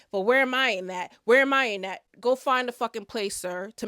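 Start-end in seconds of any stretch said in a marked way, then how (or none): 0.1-2.0 imitating a loud, self-centred complaint; mock a partner demanding attention, pushing louder; louder, mock-aggrieved whine of protest; mock indignant protest.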